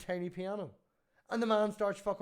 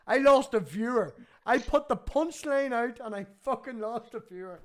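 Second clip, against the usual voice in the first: mock outrage; 5 semitones higher, 9 dB louder than usual. Real, not acted. Host laughing at losing a viewer.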